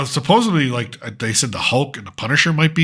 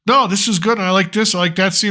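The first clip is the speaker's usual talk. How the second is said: soothing; 5 semitones higher than usual. Retold or imitated. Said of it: "soothe it over and be like".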